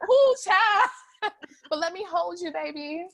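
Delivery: put-on a loving auntie soothing a child; tender comfort. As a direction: hold her close with your voice. Older self comforting teen self.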